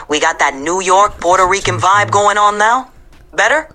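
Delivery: New York Puerto Rican with added Hispanic flavor; Hispanic New York accent. Shown as a demonstration. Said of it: "I'll add a bit more of that Hispanic flavor".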